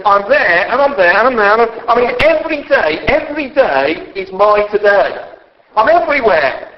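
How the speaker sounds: voice of God. Retold or imitated. Preacher voices God's answer.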